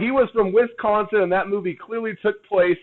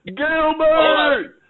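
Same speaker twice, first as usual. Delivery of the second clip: mock calling out; 10 semitones higher, much slower than usual. Quoting Gilbert Grape calling out.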